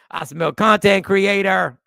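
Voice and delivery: lightly voiced suspicious commenter; mock skeptic. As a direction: lean on content like a verdict. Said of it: "That's what Daryl said".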